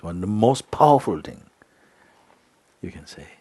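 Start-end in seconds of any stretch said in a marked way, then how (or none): none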